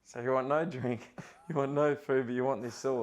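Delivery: chuckling through a baffled question; amused, incredulous asking; laughing disbelief. Retold or imitated.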